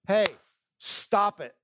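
a hint of a parent snapping at a misbehaving child; scolding parent. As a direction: call the kids to order, sharp and short. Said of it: "what you would do with your children".

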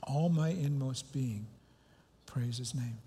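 slow, reverent psalm reading; reciting a psalm. Acted. Pastor reading a psalm to his congregation, slow and reverent. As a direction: let each phrase sink in, slowly. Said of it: "this psalm which says".

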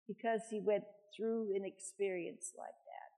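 talking through hiccups; words broken by hiccups. Real, not acted. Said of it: "I got the hiccups".

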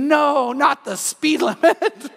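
high, loud, drawn-out wail; hammed-up horror, stretching the words; mock scream. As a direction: scream in comic protest. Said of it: "And I scream".

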